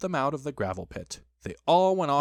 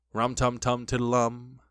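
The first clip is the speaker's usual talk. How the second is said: slow Pooh-voice humming chant; slow, level impression of a bear; slower than usual. A narrator's reading. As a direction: chant it slowly like a bear of little brain. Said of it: "in a voice like Pooh's".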